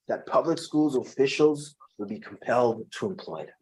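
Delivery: a lightly voiced creepy devil. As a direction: read it as a slightly creepy devil. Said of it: "guys, this is my devil voice".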